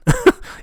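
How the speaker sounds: sudden high-pitched laugh; high delighted laugh. Real, not acted. Laughs at small numbers.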